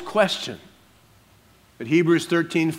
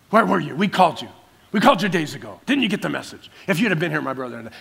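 rebuking; much faster than usual. Shown as a demonstration. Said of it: "stern and rebuking and upset".

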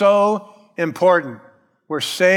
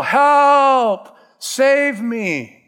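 much higher, louder cry for help; drowning yell; 8 semitones higher, 4 dB louder, much slower than usual. Acted. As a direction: yell like you are going under. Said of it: "you would yell".

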